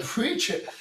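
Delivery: high, loud preach-it cheer; cheering him on. Retold or imitated. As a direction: call out like a churchgoer backing the pastor. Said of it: "You know, like".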